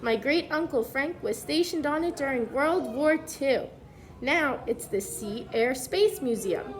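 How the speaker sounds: put-on clear, even storybook read-aloud for kids; reading to children. Teacher reads the book to the class, storybook read-aloud voice.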